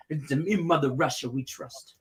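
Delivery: lightly voiced Russian accent; hint of a Russian accent. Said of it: "Russian accent".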